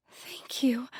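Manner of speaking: a hushed, overwhelmed thank you; whispered thanks. Acted. Grateful, first whispered.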